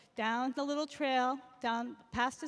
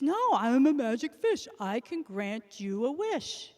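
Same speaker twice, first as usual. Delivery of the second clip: lightly voiced magic fish, louder at first; the fish insists, a bit louder; 6 dB louder than usual.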